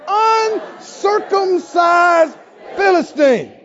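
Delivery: slow, scornful "Uncircumcised Philistine"; contemptuous sneer. Shown as a demonstration. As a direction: look down your nose as you say "Uncircumcised Philistine". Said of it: "You gotta look down your nose when you say it".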